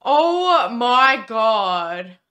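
stunned awe. Real, not acted. Stunned reaction to fight scene.

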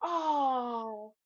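long drawn-out "aww"; baby-admiring coo. Retold or imitated. Everybody when somebody uncovers a little baby, mock adoring coo. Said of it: "uncovers a little baby and everybody goes".

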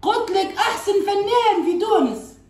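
high, drawn-out protest; emphatic correction. Real, not acted. Correcting what the other misheard. (تصحيح باحتجاج)

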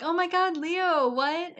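high-pitched imitated disbelief; mock shock. Wife confronts hidden husband, mock shocked. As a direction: play up the wife's amazement.

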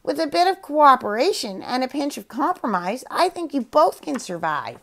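parrot thinking aloud. Acted. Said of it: "thinking out loud".

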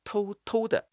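偷偷的 light and hushed; soft stress on 偷偷的. Shown as a demonstration. Teacher quoting softly. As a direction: breathe 偷偷的 gently. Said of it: "是采用重音轻吐".

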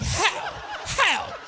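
loud, high-pitched outraged rant; hammed-up furious disbelief, shouting at an ex; losing it. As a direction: blow up in indignant comic outrage. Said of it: "And that's when I lost it".

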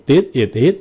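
"This is it" with the s endings dropped; no hiss. Shown as a demonstration. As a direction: leave out every s in "This is it". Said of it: "không có xì".

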